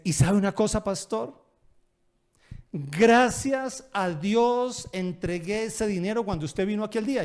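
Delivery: a thankful man bursting to tell his pastor; grateful congregant. Retold or imitated.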